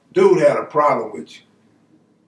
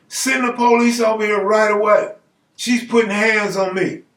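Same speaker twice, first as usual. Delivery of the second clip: acted urgent call, pitched higher; urgent complaint; 5 semitones higher than usual. Man calling 911 on a woman, urgent complaint. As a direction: demand help in a raised voice.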